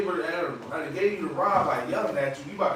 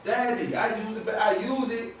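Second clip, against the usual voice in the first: put-on higher-pitched, eager little boy asking for the bathroom; little son; 4 semitones higher than usual. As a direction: play the urgent toddler, lightly voiced. Voicing his young son.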